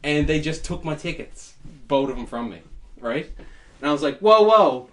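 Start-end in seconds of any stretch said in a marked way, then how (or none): 4.2-4.9 sudden loud whoa, pitched up; a loud startled double whoa; alarmed whoa. Retold or imitated. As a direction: stop them short, startled. Retelling alarmed email reply.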